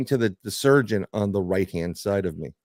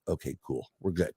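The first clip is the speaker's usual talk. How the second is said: mock relieved mutter; 7 semitones lower, 10 dB quieter than usual. Retold relief at parking sign.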